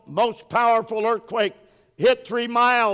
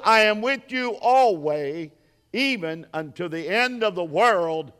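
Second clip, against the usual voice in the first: scripture reading. Acted. Preacher reads Jesus' words to the congregation, solemn proclamation. Reads the Great Commission aloud.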